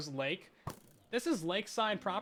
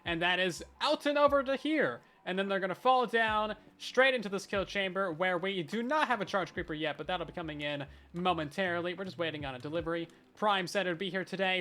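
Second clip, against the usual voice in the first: YouTuber voice; 3 dB louder than usual. Acted. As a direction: present it like a hyped tutorial video. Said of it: "Time to get out the YouTuber voice".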